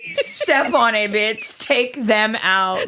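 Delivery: laughing, put-on child's voice; mock toddler gangster, amused; kid voice. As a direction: play the toddler egging mom on. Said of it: "She's like".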